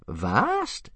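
high, rising delighted interjection; eager old man's prompt; happy interruption. A narrator's reading. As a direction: cut in gleefully. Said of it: "interrupted Old Wrinkly happily".

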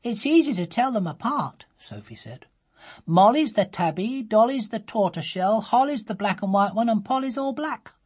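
put-on high, eager little girl voice; a girl listing her kittens, high and bright; young Sophie. A narrator's reading. A little girl explaining her kittens to mother, high eager voice. Child voice in story.

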